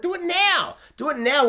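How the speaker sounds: high, urgent plea; exclaimed in impatience; impatient demand. Acted. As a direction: demand it right away, pitch jumping up.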